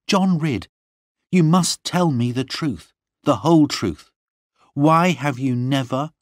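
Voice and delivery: high, insistent interrogation; demanding questioning. A narrator's reading. Lorna questioning her lover John, high and demanding. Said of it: "began to question me".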